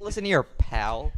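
slow, drawn-out tough-guy threat; mock tough guy. Friends play bar toughs for laughs, slow mock menace. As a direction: lean in and menace him, hammed up.

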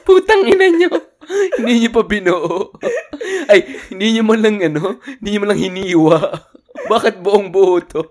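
half-laughing fake scolding; mock angry rant. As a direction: scold them while cracking up. Mock scolding of potato sender. (kunwaring galit na natatawa)

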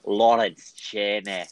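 poor attempt at a Scottish accent; unconvincing Scottish accent; bad Scottish accent. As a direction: try a Scottish accent and not quite manage it. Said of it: "That was my best Scottish accent".

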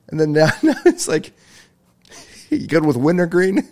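high-pitched, barely holding the laugh in; giddy with laughter. Real, not acted. Comic acting out a couple's exchange, giddy with laughter. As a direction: act the joke out in a high, giddy voice.

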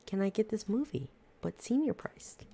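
high, slow mock old lady whine; a lightly put-on pushy old lady voice. Old lady demands a senior price at the ticket counter, mock whiny voice. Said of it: "she was like".

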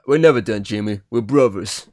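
a passing hint of Sylvester Stallone; Stallone impression. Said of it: "I did a Stallone accent then".

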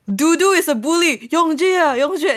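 playful high-pitched protest; mock protest. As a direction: retell it as an animated, mock complaint. Retold protest about a bully.

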